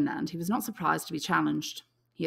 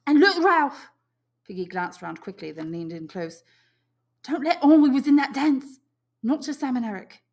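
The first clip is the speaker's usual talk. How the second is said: high, louder, urgent; conspiring boy; 8 semitones higher, 8 dB louder than usual. Acted. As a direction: warn him in secret. Piggy voiced high.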